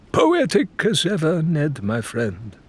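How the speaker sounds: lightly voiced wry foreign scholar; teasing Faisal. A narrator's reading. Faisal teasing Ned about the bridge, wry and amused. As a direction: tease his friend dryly.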